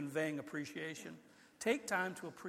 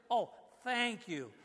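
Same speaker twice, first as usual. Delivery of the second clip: grandson's slow thanks; 5 semitones higher, slower than usual. Retold or imitated. Grandson finally thanks for cocoa.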